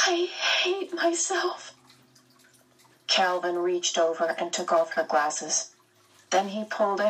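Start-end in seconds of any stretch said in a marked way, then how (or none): 0.1-1.7 higher, slow, near tears; a small broken admission; shaky, tearful. Acted. Meg blaming herself to Calvin, shaky and tearful. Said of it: "Meg said shakily".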